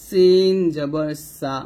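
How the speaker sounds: slow, clear hissing s in সিন and সা; hissed sin. Shown as a demonstration. Teacher placing the tongue for learners, hissed sin. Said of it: "জিহ্বার আগা নিচে দুই দাঁতের মাঝে".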